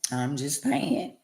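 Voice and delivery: slow, soft, drawn out; quiet drawn-out. Real, not acted. Murmuring her catchphrase to viewers, slow and soft. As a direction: let it trail low and slow.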